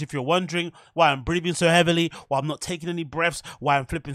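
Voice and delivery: fast, frantic live podcast rush; rushed, breathless pace. Real, not acted. Host explaining to listeners why the live show is rushed, fast and breathless. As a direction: race through it without pausing for breath. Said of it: "speaking at seventy-five or more miles per hour".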